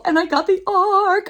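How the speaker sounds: jumps way up in pitch, bright and proud; delighted brag; thrilled. Real, not acted. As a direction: announce the prize with a squeal. Bragging about advance copy.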